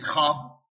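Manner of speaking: خواب read as xvab with the vav sounded; spelling pronunciation; said as written. Shown as a demonstration.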